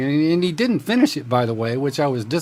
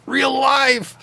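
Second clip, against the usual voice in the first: excited; 10 semitones higher, 4 dB louder than usual. Real, not acted. Repeats it as a joyful exclamation.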